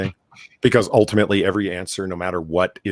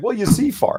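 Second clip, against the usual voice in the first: mock condescending explaining tone, higher. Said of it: "she's been able to begin to detect the tone".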